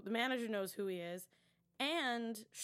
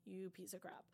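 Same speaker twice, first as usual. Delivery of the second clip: hushed whisper of disgust; mock whispered outrage; whispered insult; 3 semitones lower, 10 dB quieter than usual. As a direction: whisper it under your breath in disgust. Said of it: "And I was just like".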